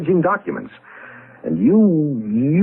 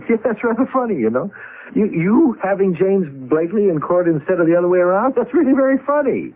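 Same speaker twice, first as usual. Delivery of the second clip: mocking amusement; 5 semitones higher than usual. Partner mocking Harold's court threat.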